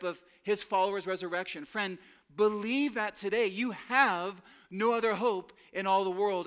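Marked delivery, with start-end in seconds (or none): 1.6-6.5 fervent appeal. Real, not acted. Pastor urges listeners to believe.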